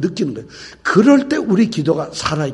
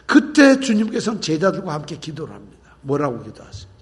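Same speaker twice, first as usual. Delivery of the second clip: ordinary talk, nothing marked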